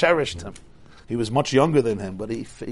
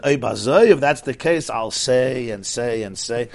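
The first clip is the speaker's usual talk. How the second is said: resolved exclamation; slower than usual. Retold or imitated. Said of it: "He said".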